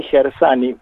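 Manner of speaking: "Gersani" with a plain s after the r; pronunciación local. Shown as a demonstration. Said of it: "hoy lo podemos pronunciar aquí". ("Gersani" pronunciado con s simple)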